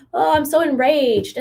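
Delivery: slow, drawn-out fake indignation; mock outrage. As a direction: imitate someone playing up their outrage. Mimics people's overblown outrage.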